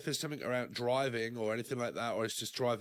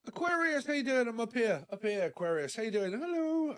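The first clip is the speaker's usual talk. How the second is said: a little nasal after a sneeze; slightly blocked nose, nasal; 9 semitones higher than usual. Real, not acted. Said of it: "if I'm a little bit nasally".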